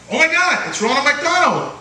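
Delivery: put-on high, thrilled little-kid gasp; mock childlike wonder; kid's excitement. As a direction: squeal with delight at the clown. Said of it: "and you go like".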